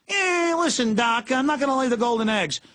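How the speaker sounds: squeaky wisecracking cartoon rabbit; Bugs Bunny. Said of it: "Bugs Bunny cartoons".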